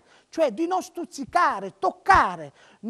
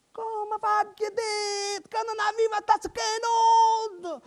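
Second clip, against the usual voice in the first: angry rant; 7 semitones higher than usual. Acted. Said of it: "e poi sbraitò".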